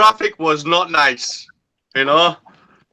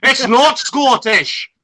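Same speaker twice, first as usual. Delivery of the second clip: slow, higher-pitched exasperated denial; indignant protest; 5 semitones higher, slower than usual. Real, not acted. Correcting friends who called the accent Scottish, slow indignant protest. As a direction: spell it out slowly, affronted.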